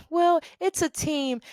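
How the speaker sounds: high, slow mimicry; mimicked placating reply. Bosses answering her claim of credit, mock placating. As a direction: imitate them, drawing it out high.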